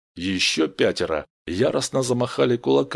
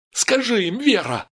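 high-pitched, raised cry; urgent demand; 10 semitones higher, 3 dB louder than usual. Acted. Steve, tears burning, urges Vera, crying out. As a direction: demand it desperately. Стив в слезах требует от Веры.

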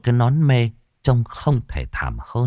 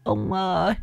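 feeble ghostly moaning; 4 dB quieter, slower than usual. Acted. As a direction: moan it out weakly, trailing to nothing. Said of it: "thều thào rên rỉ". (giọng bà lão thều thào rên rỉ, cao và chậm dần)

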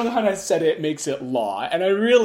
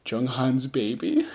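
imitating grudging surrender, slow and lower; mock-resigned, low and slow answer; begrudging; 4 semitones lower than usual. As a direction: give in reluctantly, drawn out. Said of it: "Dino just begrudgingly says".

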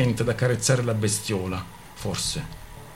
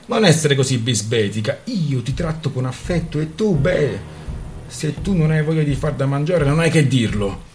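quarrelsome reproach; 4 semitones higher, 4 dB louder than usual. Acted. Couple quarrelling over dinner.

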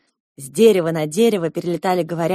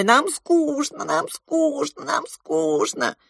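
high slow squawk fading down; squawking parrots; 10 semitones higher, much slower than usual. A narrator's reading. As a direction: chant it as fleeing parrots. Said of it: "закричали".

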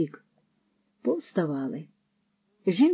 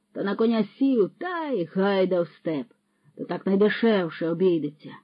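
a scheming vagabond lecturing a lad, lightly voiced and a little louder; sly horse thief; 3 semitones higher, 5 dB louder than usual. Patrokol teaches the young lad how to get horses free, sly and boastful. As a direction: play a crafty thief boasting of his trade.

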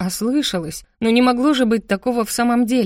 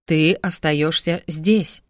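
slow, lowered firm order; 3 semitones lower, much slower than usual. Acted. Guardian brother orders his sister to stay, firm and slow. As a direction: lay down the law slowly.

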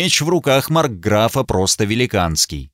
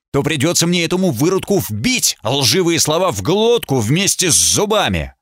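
higher, hot-tempered challenge; stepping forward, daring the brute; loud and angry; 5 semitones higher than usual. Acted. Narrator challenging the marquis in anger. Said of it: "сказал громко, злясь на самого себя".

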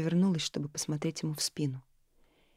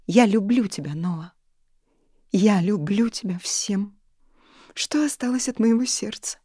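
louder, drawn-out cry of love; tearful outburst; 4 semitones higher, 7 dB louder than usual. A narrator's reading. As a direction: pour it all out, tearfully.

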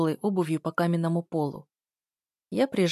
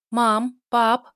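loud, high call for mom and dad; shouting for parents; 4 semitones higher, 7 dB louder than usual. Acted. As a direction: call out loudly down the stairs. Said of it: "крикнула я". (громкий крик родителям)

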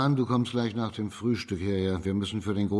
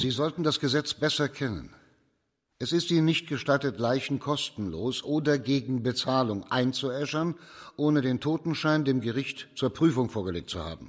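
higher, sharp reprimand; stern rebuke; 4 semitones higher than usual. Acted. Judge scolds the abbot for burning corpses, stern. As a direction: lay down the law, cold and firm.

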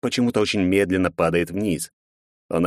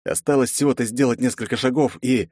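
plain reading voice

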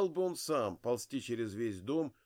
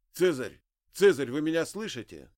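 calling out; 4 semitones higher, 8 dB louder than usual. Acted. Calling to dying old man.

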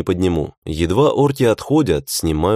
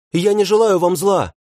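high, pleading shout; 13 semitones higher than usual. A narrator's reading. Hero crying out to the orcs, shouting. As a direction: cry out you mean no harm. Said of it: "крикнул я".

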